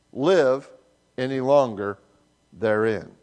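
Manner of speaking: measured, solemn Bible reading; scripture reading. Acted. Pastor reading Romans to standing congregation.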